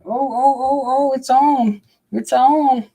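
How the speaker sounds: high, rising oh oh, it's on; sudden high alarm as the snake strikes; excited yelps. Real, not acted. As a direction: pitch jumps way up in excitement.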